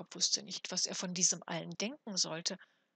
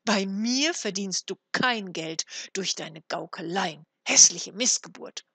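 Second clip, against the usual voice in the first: wrathful; 8 dB louder than usual. A narrator's reading. Frau Hanne scolds the supposed trickster, wrathful. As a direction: fling the insult out loudly at the end. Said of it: "entgegnete Frau Hanne zürnend".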